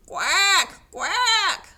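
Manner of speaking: two loud, high quacks; quacking cow. Acted. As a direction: quack loudly like a distressed duck. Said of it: "said Cow".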